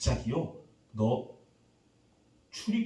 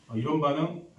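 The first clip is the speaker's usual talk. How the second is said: usual speaking voice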